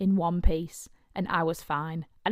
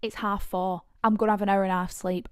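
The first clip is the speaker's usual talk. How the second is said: turning down the man outside the club, loud and exasperated; exasperated rant; 2 semitones higher, 9 dB louder than usual. Retold or imitated. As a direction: spell it out to him, fed up and loud. Refusing a pushy man, exasperated.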